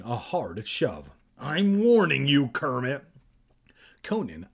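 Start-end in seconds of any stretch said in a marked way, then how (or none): 1.4-3.0 raised, louder threat; stern mock threat; acted warning. Acted threat after a hard shove.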